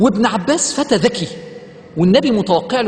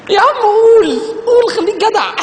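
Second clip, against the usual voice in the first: louder, high, laughing exhortation; loud urging; 12 semitones higher, 4 dB louder than usual. Real, not acted. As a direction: call out to them to just say it. Urging listeners loudly. (حث بصوت عالي)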